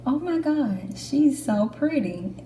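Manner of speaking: high, gushing first reaction; starstruck. Retold or imitated. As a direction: gush over the instructor. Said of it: "the first thought in my head was".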